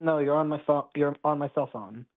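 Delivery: breaking up over a phone on speaker; cutting in and out on a cell phone speaker; choppy speakerphone. Real, not acted. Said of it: "it's really choppy".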